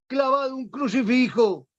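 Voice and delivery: high shouted rallying cry; shouting battle orders. Retold or imitated. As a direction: cry it out to the whole fleet. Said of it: "gritaba Juan de Austria".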